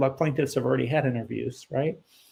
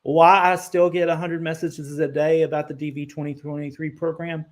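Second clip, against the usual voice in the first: exasperated, pitched up and emphatic; worn-out patience, insistent and raised; frustrated; 3 semitones higher, 4 dB louder than usual. Real, not acted. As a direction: vent about being asked endlessly. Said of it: "It's frustrating".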